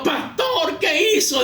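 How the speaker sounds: high-pitched acted outcry of alarm; shocked congregation. Church members confronting their pastor after the blow, acted shock. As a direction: exclaim in scandalized disbelief. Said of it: "decían los hermanos".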